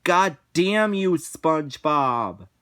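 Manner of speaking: imitating Squidward snapping at SpongeBob; angry outburst. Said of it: "He's like".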